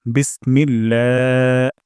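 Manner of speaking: বিসমিল্লাহ with the লা held one alif long, slow; one alif stretch. Shown as a demonstration. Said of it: "এক আলিফ টান দিব". (এক আলিফ টেনে পড়া)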